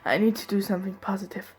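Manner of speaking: quick whisper to herself, under the breath; hushed inner thought. Acted. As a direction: whisper it fast like a private vow. Grieving narrator's inner thought.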